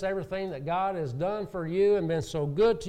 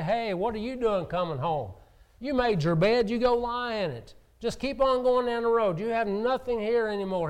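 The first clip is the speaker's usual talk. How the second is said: a scolding father, higher and louder, turning his son away; rejecting father; 5 semitones higher, 3 dB louder than usual. Retold or imitated. Preacher voices a father who refuses his son, raised and scolding. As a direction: throw the boy out, voice raised. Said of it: "The father didn't say".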